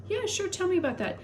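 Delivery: mock doctor voice. Quoting doctor's reply.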